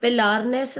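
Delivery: Pelarness said "pe-LAAR-ness"; long stressed "laar" inside Pelarness; wrong word form. Shown as a demonstration. Teacher rejecting a student's word, Pelarness mispronounced. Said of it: "Pelarness is nothing".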